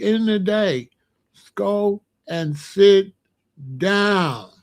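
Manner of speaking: slow, deliberate elder's warning; slow stern lecture to chat; stern scolding. Real, not acted.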